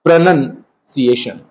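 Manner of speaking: slow, syllable by syllable: प्रोनंसिएशन, with a short "nun" sound; careful model pronunciation. Shown as a demonstration. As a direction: spell it out aloud: प्रो-नन-सि-ए-शन, unhurried. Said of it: "ध्यान से सुनिएगा".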